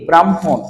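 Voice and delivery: ব্রাহ্মণ in two clear parts, bram, hon; m-before-h pronunciation. Shown as a demonstration. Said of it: "নাম কি?".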